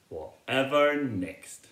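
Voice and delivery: slow, drawn-out fond sigh of a line; amused disbelief; fond exasperation. Acted. Mother bear to her storytelling cub, fondly amused.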